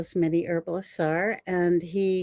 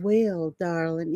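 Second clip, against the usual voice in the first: light imitation of a Virginia drawl; Virginia accent; slower than usual. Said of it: "he had a Virginia accent".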